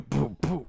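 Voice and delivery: two puffed mouth-drum beats; imitated stomp beat. Mocking crowds playing Queen, puffed mouth beat. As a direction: puff out the beat between sung lines.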